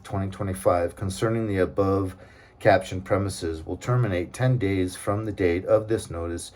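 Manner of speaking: flat official reading of the letter; reading legal notice. Real, not acted. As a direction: read the legalese out as written. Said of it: "look how weird this is".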